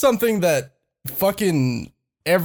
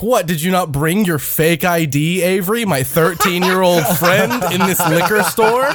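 over-articulated mock question; slow articulation. Imitating Ed at the liquor store, pointedly articulated. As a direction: spell out every word, imitating a friend. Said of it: "articulating so slowly".

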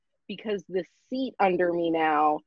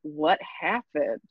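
lower, slow puzzled boss; 6 semitones lower, slower than usual. Retold or imitated. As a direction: drop down and drag out the question like a stunned boss. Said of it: "he's gonna be like".

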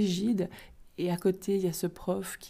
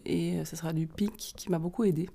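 barely audible; 5 dB quieter than usual. Real, not acted. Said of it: "Du, pardon, excusez-moi".

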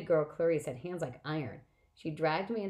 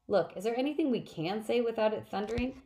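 pitched up, whining complaint; whiny; 6 semitones higher than usual. Acted. A new camper whining to Annabeth about the rules, whiny. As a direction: whine it like a fed-up kid. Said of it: "I sounded whiny".

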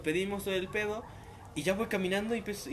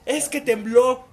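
imitated mom, higher, much louder and very slow; mom explaining; 7 semitones higher, 13 dB louder, much slower than usual. Mom telling unaware son there was a quake, slow emphatic. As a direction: spell it out slowly and emphatically. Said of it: "Y mamá".

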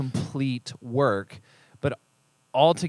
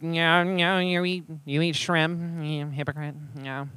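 mocking; 4 semitones higher, slower than usual. Mocking the critic's shrimp argument.

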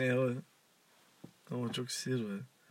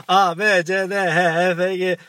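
higher, louder mock recital of letters; mock ad pitchman; 6 semitones higher, 6 dB louder than usual. Radio host mocking an ad's endless vitamin list, higher pitchman voice. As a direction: reel off letters like a hammed-up pitchman. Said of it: "Hani şöyle şey gibi".

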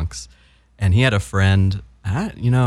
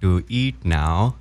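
put-on slow, deliberate Indian-accented parent; much slower than usual. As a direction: finish the dinner call in an Indian accent. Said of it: "Your standard Indian accent".

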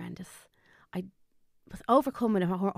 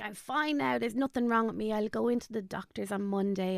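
dismissive reassurance; 2 semitones higher than usual. Retold or imitated. Father waving off worry, retold.

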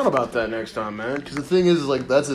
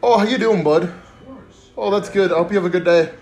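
loud, higher mock Midwest pleasantries; chirpy Midwest accent, pitched up; 6 semitones higher, 4 dB louder than usual. Covering anger at girlfriend with put-on Midwest accent. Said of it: "I had a Midwest accent".

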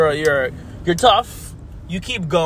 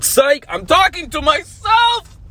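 gotcha; slower than usual. Real, not acted. Gotcha reveal while driving.

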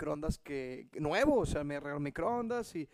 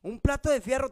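higher accusing question; mock angry; 6 semitones higher, 6 dB louder than usual. Wife interrogating him about the microwave, mock angry. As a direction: imitate the angry wife, lightly. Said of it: "bien enojada".

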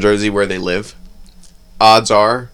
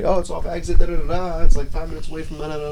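put-on New Jersey accent; 6 semitones higher, 3 dB quieter, faster than usual. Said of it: "That's how I explain the job".

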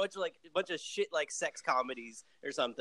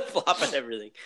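laughing, louder repeat; amused echo; 4 semitones lower, 4 dB louder than usual. Real, not acted. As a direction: echo it back through a laugh. Laughing echo of co-host's phrase.

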